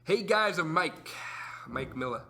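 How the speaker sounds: teasing impression of a friend's introduction; Mike Miller. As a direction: imitate a buddy introducing himself. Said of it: "no, that's like Corey".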